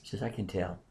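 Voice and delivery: soft, low, voiced imitation of a whisper; retold whisper. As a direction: quietly confide it, imitating a whispered aside. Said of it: "then she whispers to me".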